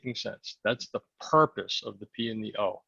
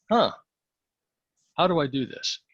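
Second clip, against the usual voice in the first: puzzled musing; 3 semitones higher, 3 dB louder than usual. Shown as a demonstration. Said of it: "Compare those questions to".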